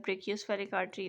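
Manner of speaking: brachiospheric आर्टरी said slowly, each syllable spelled out; slow careful repeat. Shown as a demonstration. (धीरे-धीरे साफ़ दोहराना)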